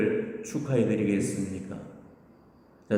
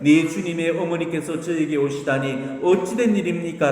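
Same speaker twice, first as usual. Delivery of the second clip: higher, marvelling quoted exclamation; retold cry of amazement; exclaiming in wonder; 6 semitones higher than usual. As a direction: voice mild awe, pitched up. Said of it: "라고 찬탄을 했고".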